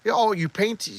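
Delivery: lightly put-on flirtatious interest; mock flirting. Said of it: "like, flirting with him".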